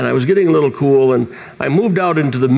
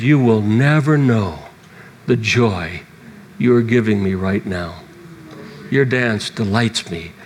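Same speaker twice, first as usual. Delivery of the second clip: tender voice of God; 4 semitones lower than usual. Retold or imitated. Preacher retelling God's tender words to him. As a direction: speak it gently, like a loving father. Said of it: "he spoke to me and said".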